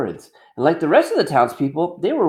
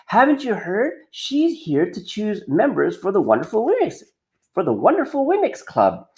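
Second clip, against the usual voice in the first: higher, exasperated lady; disgusted eye-roll; 5 semitones higher than usual. Acted. Mayor's wife disgusted at Punchinello, higher and scornful. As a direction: scoff like it's so obvious. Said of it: "rolled her eyes in disgust".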